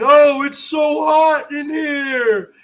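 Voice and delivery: slow, whiny mock complaint; mock complaining. Mocking a friend who complains of the heat, slow whine. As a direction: drag it out like a whiner. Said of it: "You keep complaining".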